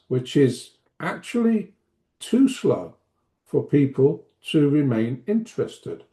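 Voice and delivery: slowed, with pauses between phrases; second gear pace. Shown as a demonstration. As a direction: spell it out unhurriedly, phrase by phrase. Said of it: "That was me demonstrating second gear".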